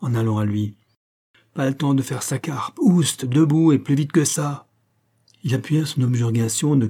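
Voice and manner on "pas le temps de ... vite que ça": brisk order to get up, pitch lifting; urging cry. Acted. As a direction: hurry him onto his feet. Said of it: "cria Bâtard". (ordre pressant, crié)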